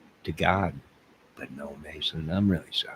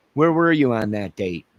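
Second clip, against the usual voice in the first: mock interrogator; 3 semitones higher, 5 dB louder than usual. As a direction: grill yourself like a cop. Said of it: "I'm gonna interview myself".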